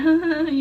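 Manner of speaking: put-on laughing; imitated laugh. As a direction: imitate his giggling fit briefly. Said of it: "you know, laughing".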